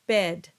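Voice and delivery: bed said with the open e; bed as the model vowel; example word. Shown as a demonstration. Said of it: "One of the words that you can use is".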